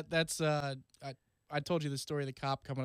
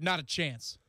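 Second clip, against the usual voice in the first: tough; slower than usual. Retold or imitated. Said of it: "Like, tough".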